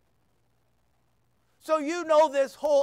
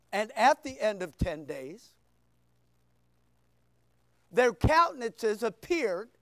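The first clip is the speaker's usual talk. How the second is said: scripture reading; 4 semitones lower than usual. Shown as a demonstration. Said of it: "The verse is verse fifteen".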